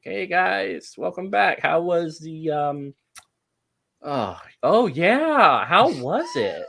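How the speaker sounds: drowsy hello that lifts into eager curiosity; sleepy greeting. Acted. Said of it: "looks over at you kind of sleepily".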